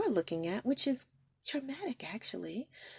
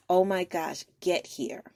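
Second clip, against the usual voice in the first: retold frantic call; 7 dB louder than usual.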